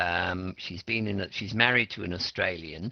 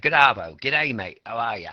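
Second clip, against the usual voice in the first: Australian slang greeting; 5 dB louder than usual. Shown as a demonstration. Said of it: "so they don't say that".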